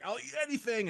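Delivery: high, goofy dog voice; a lightly voiced hungry dog; voicing the dog. Voicing the dog's eager attitude.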